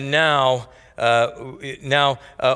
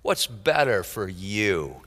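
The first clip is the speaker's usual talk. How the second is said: quiet repeat; 9 semitones lower, 7 dB quieter than usual. Shown as a demonstration. Preacher echoes his own question to the congregation, quietly. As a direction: lower and softer, "What's" falling. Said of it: "What a question".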